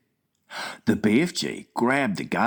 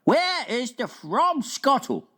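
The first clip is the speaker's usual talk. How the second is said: lightly voiced friendly giant, slow wondering question; BFG voice. Giant asking the Queen at breakfast, wondering. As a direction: puzzle it out like a big gentle giant.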